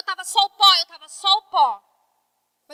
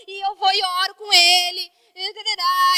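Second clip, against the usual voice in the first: tearful. Real, not acted. Mother recalling praying for her son, tearful. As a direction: voice catching on tears.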